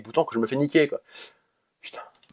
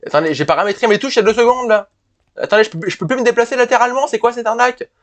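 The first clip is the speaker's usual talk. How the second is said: higher, exasperated protest at the controls; real gaming rage; 8 semitones higher than usual. Real, not acted. Gamer raging at broken controls, higher exasperated voice. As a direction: complain to viewers that the keys stopped working. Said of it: "je commence déjà à rager".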